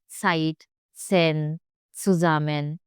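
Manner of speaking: ZEIT, ZEN, ZUSAMMEN each begun with "ts". Shown as a demonstration. Teacher listing German examples, Z as TS. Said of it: "Z in German always sound like ts".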